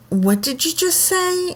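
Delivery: retold in a high, careful calm voice; calm question. Mother to her drowsy little son, high and calm. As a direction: ask it calmly, pitched well up. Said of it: "really calmly".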